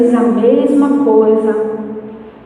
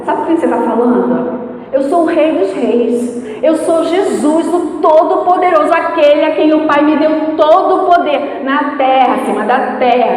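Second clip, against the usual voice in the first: mild mock Jesus scolding; 3 semitones higher than usual. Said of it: "Eu vou falar no microfone, o que eu falaria pra ela".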